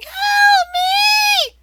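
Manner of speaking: high, loud desperate cry; tiny captive pixie screaming help. Acted. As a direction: shriek for help like a trapped fairy. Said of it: "little cry coming out from the pixie saying".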